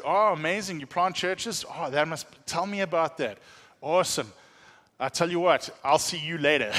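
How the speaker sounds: overdone interest, lightly hammed up; feigned enthusiasm. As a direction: gush politely to get away. Feigned interest before fleeing church planters.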